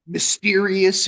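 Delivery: drawn-out, lightly mock-mysterious word. Singer recalls trying to be all mysterious on a song, drawn out. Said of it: "I'm trying to be all fucking".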